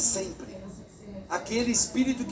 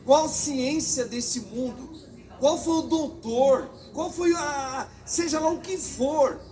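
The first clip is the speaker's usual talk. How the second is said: rising fervor; 4 semitones higher, slower than usual. Real, not acted. Preacher building to emotional climax.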